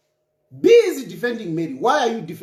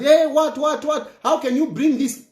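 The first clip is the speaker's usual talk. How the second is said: higher-pitched imitation of protesters; put-on startled objection; mock indignant protest; 4 semitones higher than usual. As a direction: act out someone barging in to object. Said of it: "I don't want to come and".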